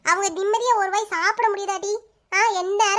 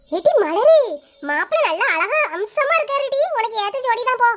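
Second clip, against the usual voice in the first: excited teasing; 4 semitones higher than usual. Acted. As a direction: gush about the groom with a laugh. Excitedly praising the groom.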